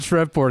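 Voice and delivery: Shreveport quoted as "SHREV-port", short e; imitated mispronunciation. Co-host quoting host's slip, Shreveport with short e. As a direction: repeat Shreveport the wrong way, "shrev" as in "ever". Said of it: "when you said Shreveport again".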